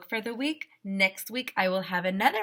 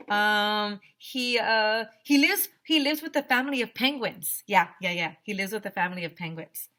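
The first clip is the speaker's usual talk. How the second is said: put-on nervous kid. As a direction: make up the lie on the spot, fumbling. AJ adds penguins to the lie.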